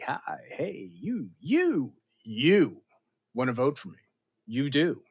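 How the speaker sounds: pushy, pitch jumping up; mock campaign pitch to the voter; smarmy candidate. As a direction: schmooze like a slick politician. Impersonating a charismatic candidate.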